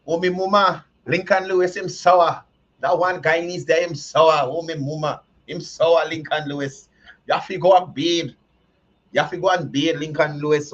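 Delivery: lightly voiced Mackerel, mock pleading; a hint of Mackerel begging him. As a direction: plead with Lincoln like Mackerel, half joking. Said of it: "in the Mackerel voice for truth".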